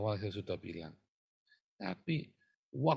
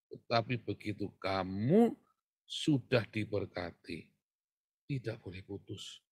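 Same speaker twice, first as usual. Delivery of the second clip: slow solemn warning; slower than usual. Retold or imitated. Aunt warning the young couple, slow and solemn. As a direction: lay down the final rule slowly. Aunt's firm advice recalled.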